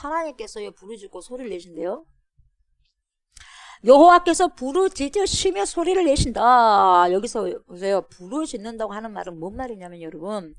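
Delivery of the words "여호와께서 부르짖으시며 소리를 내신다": high, loud declamation; proclaiming scripture. Acted. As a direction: cry the verse out to the congregation. Declaims the verse to congregation. (높고 크게 선포하듯)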